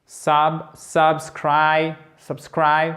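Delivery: sub alone, then subscribe stressed on SCRIBE; syllable build-up. Shown as a demonstration. Teacher builds the word for learners, syllable-by-syllable subscribe. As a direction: piece subscribe together, second syllable strong. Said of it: "vous partez de cette syllabe".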